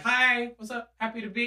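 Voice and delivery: mock cheery greeting. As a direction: imitate an over-friendly hello. Mimicking cheery people from Indiana.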